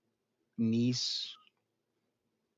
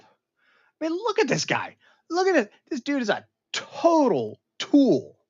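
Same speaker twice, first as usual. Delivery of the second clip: high and loud; mocking disbelief at the screen; mock outrage; 9 dB louder than usual. Real, not acted. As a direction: jeer at the guy. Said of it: "mocking the character".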